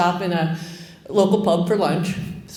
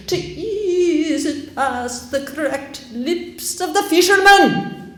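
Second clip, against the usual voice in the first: much higher, loud, slow public proclamation; pompous sheriff proclaiming; 4 semitones higher, 3 dB louder, slower than usual. Retold or imitated. Sheriff proclaiming rationing rules to the town square, loud and pompous. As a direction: declaim to the whole square. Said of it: "hearing him in the public square".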